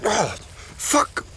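ordinary talk, nothing marked

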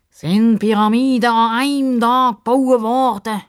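high, loud rhetorical question; pompous sidekick. A narrator's reading. Sidekick reasoning with the upset girl, pompous. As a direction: sing it out grandly.

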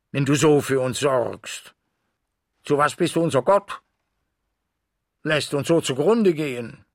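anguished outcry. Acted. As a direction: hurl the reproach upward, pleading and accusing. Dog cries out to the moon.

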